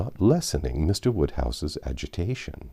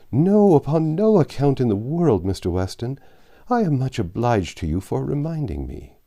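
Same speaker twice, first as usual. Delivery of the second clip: put-on higher, fussy elderly gentleman voice; fretful old father; 7 semitones higher than usual. Anxious father worrying over Emma dining out, fretful old voice. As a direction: fret over late hours and damp air like an anxious old man. Mr Woodhouse gives way.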